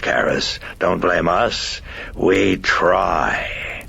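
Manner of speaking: lightly voiced demon, lilting up on key phrases; mock-courteous demon making excuses; taunting demon. Demon to priest about miracles, taunting with a lilt.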